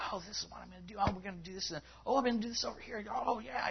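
high, hurried, mock-eager chatter; overeager volunteer. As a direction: rattle it off like someone taking on everything. Mimics overcommitted people who can't say no.

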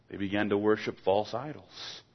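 usual speaking voice

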